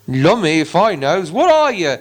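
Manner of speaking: a troll squinting at a hobbit; troll William eyeing the hobbit; puzzled troll. Acted. Troll questioning Bilbo.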